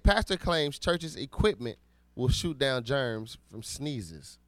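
headline reading. Real, not acted.

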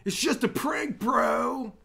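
high crying yell, imitating the YouTuber; Filthy Frank shout. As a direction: scream it like a whiny prank video host. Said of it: "his fucking great video where he was like".

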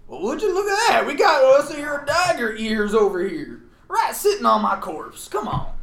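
Southern US twang in character; Southern accent. Acted. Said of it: "I'm doing the wrong Southern accent".

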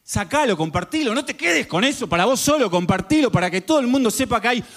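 preach, building toward the climax. Acted. Preacher urging the audience to share the Savior, building fervor.

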